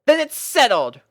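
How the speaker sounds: a pony captain lining up her troops; Rainbow Dash voice, bossy and bright. A narrator's reading. Rainbow deciding.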